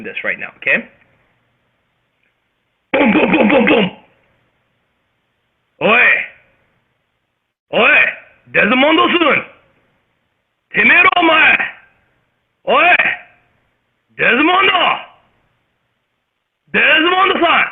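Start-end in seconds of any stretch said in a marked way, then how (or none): 2.9-3.9 high, rapid vocal booms; loud, punchy knocking noises; imitated door banging. 5.8-17.6 high, forceful yakuza yell; loud, high-pitched Japanese gangster call. Acted. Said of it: "that is how some of the Japanese Yakuza sound".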